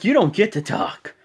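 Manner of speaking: high, forceful put-down; mock scolding. John Cena imitated telling rival not to talk, forceful. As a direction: silence a rival in an acted voice.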